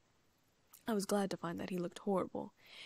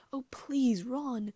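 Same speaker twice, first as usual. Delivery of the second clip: urgent breathy plea; frantic whisper; 5 semitones higher, 6 dB louder, much slower than usual. A narrator's reading. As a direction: beg him frantically, hushed. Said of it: "Hermione whispered frantically".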